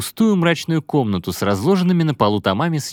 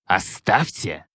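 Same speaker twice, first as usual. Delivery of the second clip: pleading; 2 semitones lower, much slower than usual. Acted. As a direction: beg them to stop. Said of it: "взмолился Азраил". (умоляюще)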